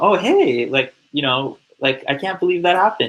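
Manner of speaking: overly excited, bubbly, gushing chatter. Demonstrating the wrong way to answer someone who is really sad, all excited. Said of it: "you don't want to be all excited".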